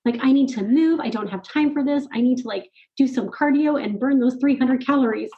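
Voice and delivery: mock an impatient inner voice objecting; lightly acted antsy complaint; impatient ego. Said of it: "my ego in my head was like".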